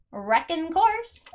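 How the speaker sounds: slow, drawn-out southern try; attempted southern accent. Player trying a game witness's line, unsure southern accent. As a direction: stretch it into a tentative southern drawl. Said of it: "If you're from the South, do you talk like this".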